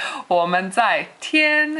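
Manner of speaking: 我们在 squeaked a bit too high; mock high-pitched missionary. Teacher imitates new missionaries saying 我们在 in a mock high pitch. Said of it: "the way that they often say".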